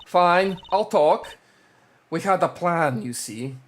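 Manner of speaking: put-on lightly done Russian accent. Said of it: "I'm still gonna do the Russian accent".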